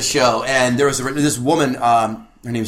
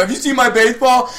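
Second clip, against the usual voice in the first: Warren impression; 7 semitones higher than usual. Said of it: "Warren from Something About Mary".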